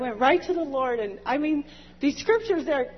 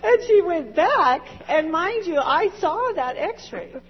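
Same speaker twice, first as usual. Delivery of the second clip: laughing; 4 semitones higher than usual. Real, not acted. Laughing through the retelling.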